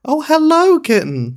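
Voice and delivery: high cooing voice for a kitten; cooing at a cat. Real, not acted. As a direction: coo up high like greeting a pet. Greeting the cat on mic.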